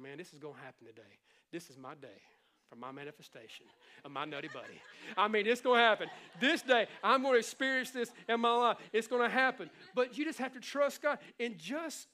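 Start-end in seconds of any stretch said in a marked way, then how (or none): 0.0-9.7 imitating kids. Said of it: "they just come saying".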